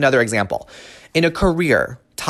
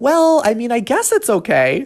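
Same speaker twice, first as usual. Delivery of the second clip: very high, tolerating, put-up-with-it tone; 10 semitones higher than usual. Showing how people sound when tolerating something, in a high-pitched tolerating voice. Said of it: "we usually go into that high-pitched voice whenever we're tolerating".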